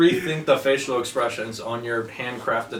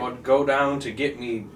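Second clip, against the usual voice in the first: mock Australian-sounding accent; badly faked Irish that comes out Australian; attempted Irish, sounding Australian. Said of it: "That's Australian".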